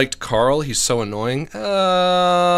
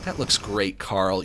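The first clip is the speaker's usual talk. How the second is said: low, soft condescending praise; Jimmy; 6 semitones lower, 6 dB quieter, slower than usual. Acted. Jimmy humouring Carl about his drawing, quietly patronising. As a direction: say it as if to a toddler. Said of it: "why did he say it like that?".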